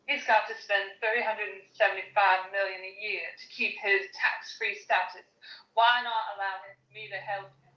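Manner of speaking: a light faux Southern Belle accent over a British base. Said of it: "my attempt at a British Southern Belle accent".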